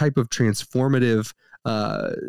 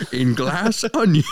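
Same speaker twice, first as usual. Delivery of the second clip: put-on laughing in the accent; 3 semitones higher than usual. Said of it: "practice a Southern accent".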